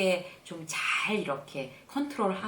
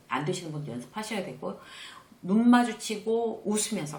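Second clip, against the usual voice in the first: ordinary talk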